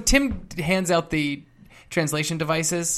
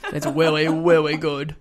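put-on baby talk. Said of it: "Bringing back the baby talk".

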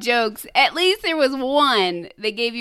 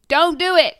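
higher, louder joke-telling shout; mock urgent yell; 7 semitones higher, 8 dB louder than usual. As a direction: yell it like a pleading bystander. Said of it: "He yells".

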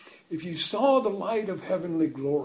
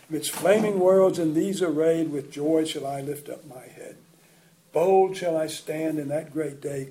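hymn recitation. Acted.

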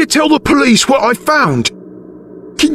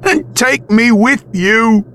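pleading; 13 semitones higher, slower than usual. A narrator's reading. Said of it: "Alf pleaded".

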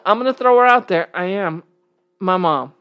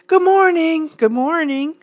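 lightly voiced friendly mom, slowing on the hellos; imitating mom. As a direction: chirp it like a cheerful mom on an elevator. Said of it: "she throws on this big smile and say".

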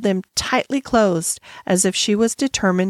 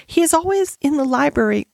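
higher, halting explanation; pitched up, pausing before the end; embarrassed stammer; 6 semitones higher than usual. A narrator's reading. Embarrassed schoolgirl explains her father's habits, haltingly. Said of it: "she stammered".

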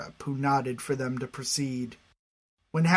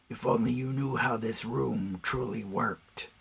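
low quiet man voice; 3 semitones lower, 4 dB quieter than usual. Acted. Scarab taunts.

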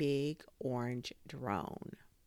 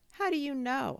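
surprised; 11 semitones higher, 4 dB louder than usual. A narrator's reading. Freddie surprised.

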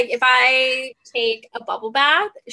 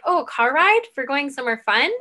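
higher and louder, eager question; excited dog voice; 3 semitones higher, 5 dB louder than usual. Retold or imitated. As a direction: voice the dog thrilled about a car ride. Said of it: "she just assumes like".

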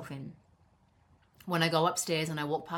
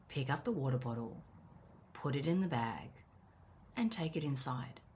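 sat-nav style instruction; 3 semitones lower, 7 dB quieter than usual. Retold or imitated. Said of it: "like Siri".

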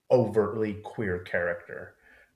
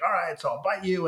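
mock Lestat; 8 semitones higher than usual. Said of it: "he's like".

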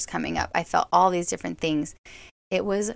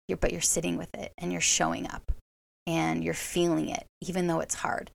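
loving parent voice. Retold or imitated. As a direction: comfort yourself like a parent with a child. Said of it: "like a loving parent to a child".

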